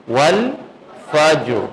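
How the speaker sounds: والفجر recited very slowly, drawn out, with the final ر held silent; slow tajweed recitation of والفجر; Quran recitation. Shown as a demonstration. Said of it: "ساکن ہی رہنے دینا دونوں کو".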